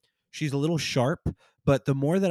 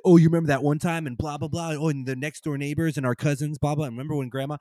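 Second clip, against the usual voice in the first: nostalgic family chatter; 3 semitones higher, 4 dB louder than usual. Retold or imitated. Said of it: "it's like".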